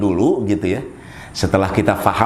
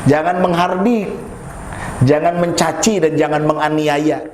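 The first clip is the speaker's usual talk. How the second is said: raised preaching voice; 7 semitones higher than usual. Acted. Preacher listing commands.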